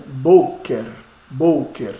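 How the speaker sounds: "boker" with the stress on "Bo", pitch dropping; stress on first syllable. Shown as a demonstration. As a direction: lean on "Bo" in "Boker", let "ker" fall away. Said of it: "Está no bo".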